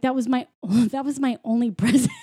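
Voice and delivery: put-on robbed kid's line broken by giggles; laughing mock complaint. Imitating the rabbit child losing his present, laughing. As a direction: crack up while imitating the child.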